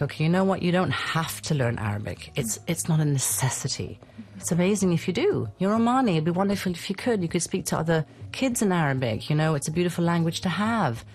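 easygoing, light and encouraging; chill, relaxed reassurance. Retold or imitated. Mother calmly reassuring her children about Arabic. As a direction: make it no big deal for the kids. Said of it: "I was like".

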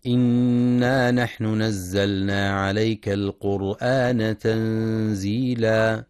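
slow, drawn-out melodic tartil; slow Quranic recitation. Acted. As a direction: chant the verse with measured tajweed.

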